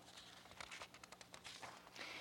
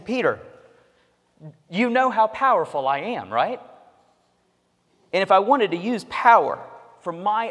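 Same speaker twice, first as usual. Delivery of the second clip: raised and louder, earnest Jesus paraphrase; voicing Jesus; 8 semitones higher, 5 dB louder than usual. Preacher voicing Jesus to Peter, earnest and raised. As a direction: plead it as Jesus would to Peter.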